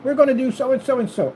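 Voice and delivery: a hint of addressing gentlemen formally; proper business voice. Mimicking his proper talk to the street friends, formal voice. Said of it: "you talk like this".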